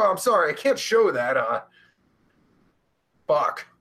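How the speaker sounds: usual speaking voice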